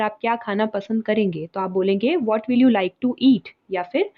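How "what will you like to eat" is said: slow model sentence. Shown as a demonstration.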